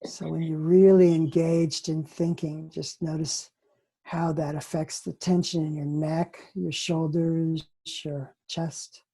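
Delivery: unhurried guidance with spaced phrases; guided meditation. Acted.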